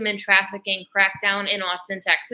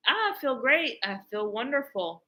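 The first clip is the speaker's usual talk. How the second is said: mock contented sigh; 2 semitones higher, 4 dB quieter than usual. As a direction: settle into smug relief. Waking up refreshed.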